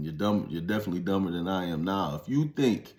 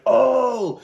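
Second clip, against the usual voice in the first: high mock-impressed oh, jumps way up and gets louder; mock amazed oh; 10 dB louder than usual. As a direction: play the gawking crowd, half mocking. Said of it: "the reason everybody's like".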